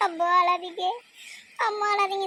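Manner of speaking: mocking imitation of a consoling son, pitch climbing with each repeat; mimicking the son. Daughter-in-law mimics the son soothing his crying mother, mock consoling. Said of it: "உடனே உங்க பையன் வந்துருவாரு".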